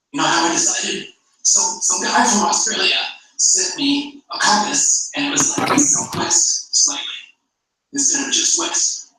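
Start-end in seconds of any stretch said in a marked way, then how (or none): 5.8-9.1 mock instrument voice. Voicing the compass reading.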